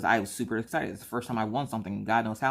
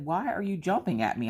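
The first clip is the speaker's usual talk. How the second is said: imitating husband; 7 semitones higher than usual. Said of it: "he's like".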